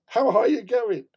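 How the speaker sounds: American dude voice. Retold or imitated. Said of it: "He goes".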